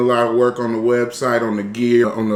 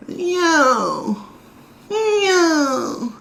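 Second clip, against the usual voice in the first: high call. Real, not acted. Practicing intro call.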